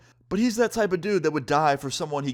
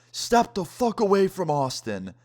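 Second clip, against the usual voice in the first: slow, higher mock yell, drawn out; retold yell; 7 semitones higher than usual. John yelling at the guys surrounding his friend, slow higher yell. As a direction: bark it slowly like a warning. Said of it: "I hear John yell".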